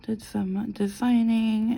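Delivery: aloud, drawn out. Real, not acted. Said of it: "repeats it aloud, slower".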